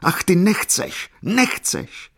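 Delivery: very high, drawn-out anguished cry; deranged wail. A narrator's reading. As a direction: wail it as a crazed reproach. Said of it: "zvolal pomaten". (pomatené, zoufalé naříkání)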